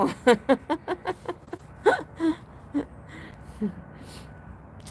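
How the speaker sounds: long high laughing fit; helpless laughter. Real, not acted. Streamer tickled by viewer's reply, laughing helplessly. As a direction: laugh until only gasps remain. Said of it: "พี่ขำที่น้องตอบมา".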